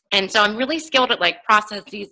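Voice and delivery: slightly husky throat, needs clearing; frog in throat. Real, not acted. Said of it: "I've got a little frog in my throat".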